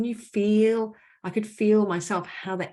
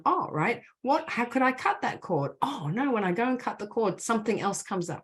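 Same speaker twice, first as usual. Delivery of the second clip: inner realization; 4 semitones higher than usual. Retold or imitated. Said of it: "Now we're like".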